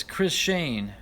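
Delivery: "Chris Shane" with "Shane" spoken slowly; read-out pronunciation. Shown as a demonstration. Host reads a chat note: "Chris Zhang" is "Chris Shane", slowly. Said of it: "is pronounced as".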